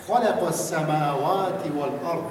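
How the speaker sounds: slow Arabic recitation of خلق السماوات والارض; Quran recitation. Shown as a demonstration. Teacher models a verse for practice, slow recitation. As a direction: recite it slowly, Quran style. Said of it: "نیاز به تمرین داره".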